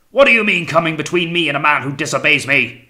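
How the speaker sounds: high, loud outraged challenge; angry shout. A narrator's reading. Captain rebuking the officer who came between, furious shout. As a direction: roar at the one who interfered. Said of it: "shouted the captain".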